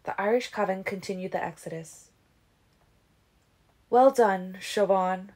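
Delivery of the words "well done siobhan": complimenting Carlyle. Acted. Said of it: "Carlyle complimented her".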